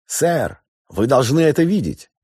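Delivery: high, loud excited call; urgent call. A narrator's reading. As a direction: call him over urgently. Officer calls captain urgently.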